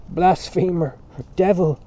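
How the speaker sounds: high, loud denunciation; scream. A narrator's reading. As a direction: hurl each word as an accusation. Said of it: "screamed Dante".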